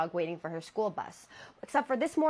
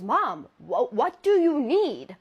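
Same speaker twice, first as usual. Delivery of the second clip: louder, slow shaky question; frightened; 4 semitones higher, 7 dB louder, slower than usual. Retold or imitated. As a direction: ask carefully, scared. Scared girl to staring mother.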